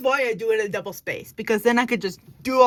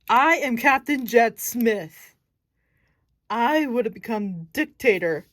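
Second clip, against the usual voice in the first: proud villain captain; 5 dB louder, slower than usual. Acted. Villain captain declares himself.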